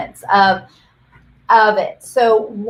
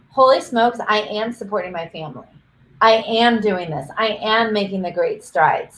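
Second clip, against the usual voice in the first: "I am" stressed as settled fact; affirming emphasis on "am". Shown as a demonstration. Coach modelling what a client should say, affirming statement. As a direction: lean on "am" each time, letting each statement fall. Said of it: "where is it that you're putting the energy".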